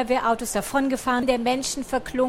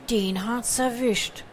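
Per als Figur; 4 dB quieter, slower than usual. Acted. Per kommentiert den Fund.

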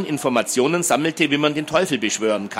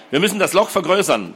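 higher, eager excitement; jubilant; 6 semitones higher than usual. A narrator's reading. Boy keen to widen the hole, jubilant. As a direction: urge them on excitedly. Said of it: "jubelte er".

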